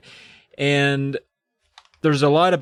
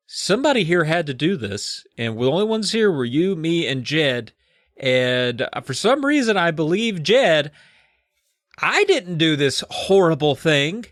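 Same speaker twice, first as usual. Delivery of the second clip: mad mom; 3 semitones higher than usual. Retold or imitated. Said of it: "real mad, you know?".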